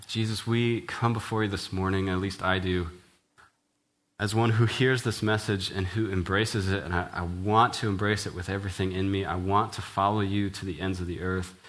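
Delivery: earnest spoken prayer. Acted. Pastor praying aloud for the congregation, sincere prayer. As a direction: pray it sincerely to Jesus.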